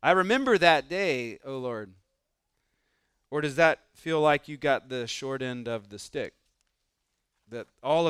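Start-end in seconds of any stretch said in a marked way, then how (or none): 0.0-2.0 grateful exclaim. Pretend. Same grateful Levite.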